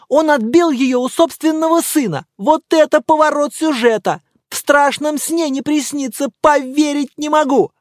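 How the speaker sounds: high, loud gushing news; breathless excitement. Acted. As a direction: blurt the gossip out, thrilled. Добродеев взахлёб рассказывает новость. (Добродеев взахлёб кричит новость, высоко и громко)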